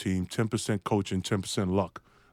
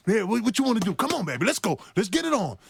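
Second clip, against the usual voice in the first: higher-pitched, hyped-up trash talk; cocky challenge; 7 semitones higher than usual. Retold or imitated. Rookie going in to face Larry Bird, cocky challenge. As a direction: goad your opponent to come at you.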